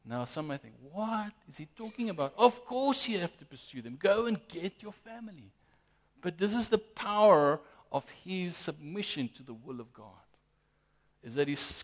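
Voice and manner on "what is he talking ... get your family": mock incredulous protest, higher pitch; incredulous objection. Preacher voices what some may think, incredulous. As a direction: object as a baffled onlooker would.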